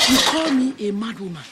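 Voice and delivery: indignant. Acted. Neighbour takes offence.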